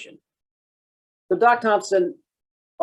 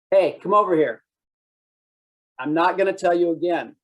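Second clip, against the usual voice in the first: mock stern command; 4 semitones higher than usual. Cop ordering a citizen over, mock stern. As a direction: boss them like a blunt cop. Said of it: "what do most cops do".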